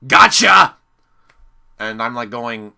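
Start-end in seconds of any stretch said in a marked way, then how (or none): 0.1-0.8 loud, pitched-up mock taunt; loud hammed-up trickster voice; Salty impression. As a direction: burst out as a gloating prankster. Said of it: "Salty comes up and he's like".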